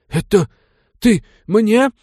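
high, loud, each word spat apart; outraged disbelief, biting off words; spitting words out. A narrator's reading. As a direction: noble stunned by the insult, spitting words. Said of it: "Георгий раздельно выплёвывал слова".

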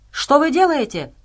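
high, loud cry of alarm; shouted. A narrator's reading. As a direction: cry out in protest, pitched high. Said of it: "прокричал Энди".

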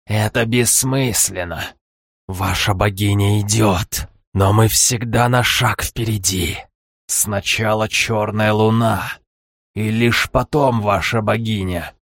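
slow, cold gloating villain. Acted. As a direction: lay it out slowly, menacing. Villain voice in his head.

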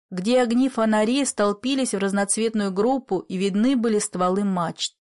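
plain reading voice

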